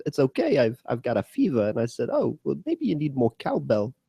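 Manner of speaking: lightly done halting actor impression with odd swoops in pitch; stop-start phrasing, words pushed up in odd places; Christopher Walken. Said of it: "my Christopher Walken goes a little bit like this".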